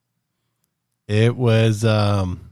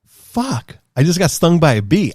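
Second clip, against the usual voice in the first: retold dismay; 9 semitones higher, 5 dB louder than usual. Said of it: "And I'm like".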